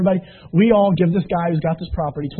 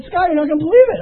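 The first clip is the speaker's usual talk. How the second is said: excited news; 11 semitones higher, 6 dB louder, faster than usual. Retold or imitated. Telling spouse the news.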